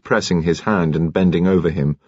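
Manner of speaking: usual speaking voice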